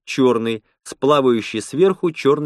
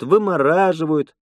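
higher-pitched VYMORAZHIVAYUT as a statement, «вымораживают»; Lena listing; 6 semitones higher than usual. Acted. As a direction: say «вымораживают» high, as a list's last item. Lena ending her list.

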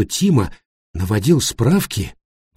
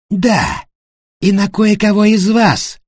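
sharp, irritated retort, higher; 10 semitones higher, 4 dB louder, slower than usual. A narrator's reading. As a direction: snap back in irritation. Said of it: "раздражённо ответил Тима".

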